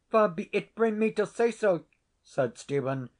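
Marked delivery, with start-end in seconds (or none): 0.1-1.8 cornered denial. A narrator's reading. Tenant cornered by laird.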